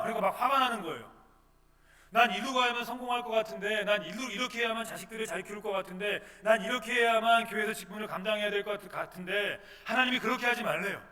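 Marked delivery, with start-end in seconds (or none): 2.1-9.6 loud, higher, aggrieved complaining; indignant protest. Acted. Believer protesting to God, loud and aggrieved. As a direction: push back like a frustrated believer.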